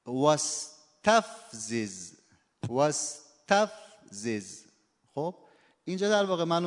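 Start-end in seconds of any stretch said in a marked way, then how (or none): 0.0-2.1 واستفزز، slow, with the middle syllable تف stressed. Shown as a demonstration. 2.7-4.6 واستفزز said slowly, middle syllable تف stressed. Shown as a demonstration.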